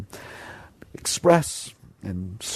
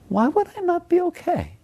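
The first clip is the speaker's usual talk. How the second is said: mock disbelief. Mock incredulous inner voice.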